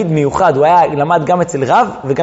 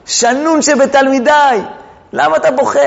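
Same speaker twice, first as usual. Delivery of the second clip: fond teacher; 7 semitones higher than usual. Acted. Shmuel asks weeping student again.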